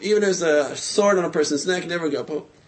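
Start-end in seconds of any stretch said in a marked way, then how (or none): 1.9-2.5 never give up hope dropped softer and settled; a gentle echo of the lesson; soft repeat. Shown as a demonstration. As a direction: say never give up hope again quietly, as a closing thought. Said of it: "You have to".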